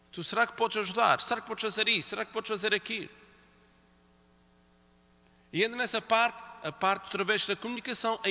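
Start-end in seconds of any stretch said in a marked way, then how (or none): 0.1-3.1 polite request. Shown as a demonstration. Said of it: "vamos actuar com respeito na mesma altura".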